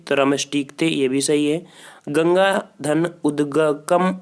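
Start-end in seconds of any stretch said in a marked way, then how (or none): 2.1-4.2 slow split reading. Shown as a demonstration. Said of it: "थोड़ा सा बोलने में आउट लग रहा है".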